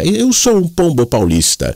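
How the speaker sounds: high, slow Italian-Paulista pigeon voice; Italian Mooca accent. Retold or imitated. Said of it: "ele tinha um sotaque italianão, da Moca".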